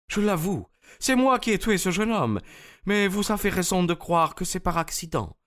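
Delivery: Anna giving herself up to Holmes, dignified; Russian woman Anna. Acted. Narrator voices Russian woman.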